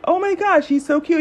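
put-on light girlish gush over a crush; excited retold gush. Gushing over a cute guy.

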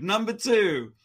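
loud call of the number; host calling out number two; countdown announcement. Real, not acted. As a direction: announce the next item.

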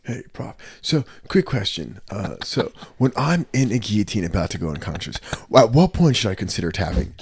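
Bardaggi. Acted. Student asking the prof about tapping, softly put-on voice. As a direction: ask it as an earnest student character. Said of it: "your Bardaggi is hilarious".

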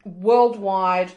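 talking through a mouthful of chips; words round a mouthful of snacks; mouth full. Real, not acted. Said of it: "Don't talk with your mouth full of twisties".

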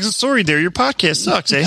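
apologetic put-on Canadian lilt; mock Canadian accent. Canadian market rejecting their podcast, mock Canadian apology. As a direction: politely insult them in mock Canadian. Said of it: "the entire Canadian market's like".

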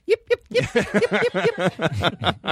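high yipping like a tiny dog; yappy chihuahua voice. Retold or imitated. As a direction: yap it out like a chihuahua. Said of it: "does it sound like this?".

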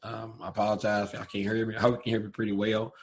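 hoarse, strained speaking voice. Real, not acted. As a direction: speak with a sore, hoarse throat. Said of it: "sorry my voice is hoarse".

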